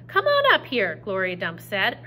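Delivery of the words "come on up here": high, loud firm call; hard and serious. Acted. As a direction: call the girl in, firm and stern. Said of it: "all hard and serious".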